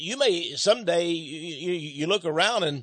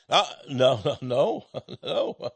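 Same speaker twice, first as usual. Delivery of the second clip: laughing no; 5 semitones lower than usual. Real, not acted. Laughing denial.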